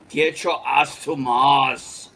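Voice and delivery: slow, heavy movie-hero delivery; action movie hero voice. Retold or imitated. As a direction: growl it like an action star. Movie line quoted in voice.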